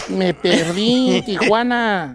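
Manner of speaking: slow, drawn-out mimic of Nacho's wife; man imitating Nacho's wife, slow and drawn out. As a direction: stretch it out slowly like the lady. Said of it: "Ya hablo como la señora de Nacho".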